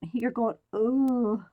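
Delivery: slow drawn-out mock moan; imitated moan. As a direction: stretch the ooh like straining. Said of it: "You're, you're moaning".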